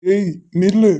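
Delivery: sharp yell to halt her; angry shout; shout to stop. Acted. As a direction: call out hard to stop her. Stopping fleeing woman.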